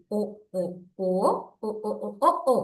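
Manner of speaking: "ஓ" in short separate bursts; phonics sound drill. Shown as a demonstration. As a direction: repeat "ஓ" rhythmically as the sound of O. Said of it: "ஓல உச்சரிப்பு லேசி".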